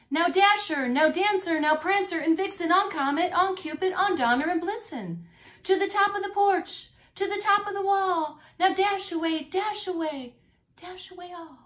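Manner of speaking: high, loud hearty calling; Santa calling reindeer. Acted. Santa shouting his reindeer's names, loud and high. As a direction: call out each reindeer's name loud. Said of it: "and he shouted, and he called them".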